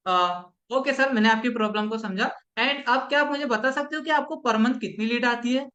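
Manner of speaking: calm, unhurried polite question; steady, courteous sales voice; confident and polite. Shown as a demonstration. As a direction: ask it kindly with confidence. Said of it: "एकदम confidence से और एकदम अच्छे से".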